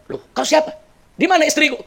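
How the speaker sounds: high-pitched, taken-aback questions; acted bewilderment at a stranger; startled. Husband finds an old man instead of wife, startled. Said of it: "Kaget ini orang".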